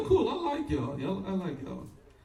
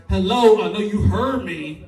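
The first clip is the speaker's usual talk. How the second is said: put-on louder, clipped "Hello" with an accent; impatient mock Asian accent; 3 semitones higher, 8 dB louder, slower than usual. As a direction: call out "Hello" irritated in a faked Asian accent. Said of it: "if you couldn't tell by the accent".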